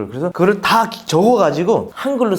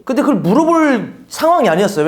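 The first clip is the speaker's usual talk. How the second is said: ordinary talk, nothing marked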